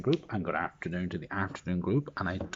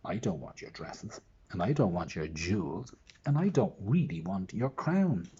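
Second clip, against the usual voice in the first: frog voice; 2 semitones higher, 3 dB louder than usual. Acted. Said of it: "the frog said".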